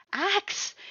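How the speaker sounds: high shocked yelp of his name; startled cry. Acted. Reader yanked into the snowy yard, crying out in alarm. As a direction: blurt it out in sudden alarm.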